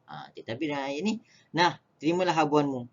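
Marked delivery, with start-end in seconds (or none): 1.5-2.8 quick sarcastic retort; mild mock anger; angry. Shown as a demonstration. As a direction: throw it at them in spite. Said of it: "Dia marah".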